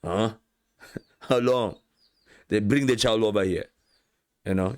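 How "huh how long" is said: slow, sighing, then a laughing rise; a worn-out teacher asking how long; weary Jesus. Retold or imitated. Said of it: "Jesus was really tired now".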